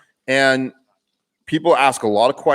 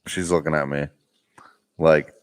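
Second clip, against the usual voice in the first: hushed, half-whispered aside to the viewers; 7 semitones lower, 3 dB quieter than usual. Real, not acted. Vlogger whispering to the camera about the cook's glare. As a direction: lean in and whisper it so she can't hear.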